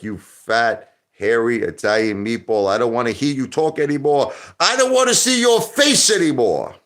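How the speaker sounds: building up into a high, loud mock whine; mock viewer rant. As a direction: mimic a fed-up viewer, rising to a yelp. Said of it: "You're like".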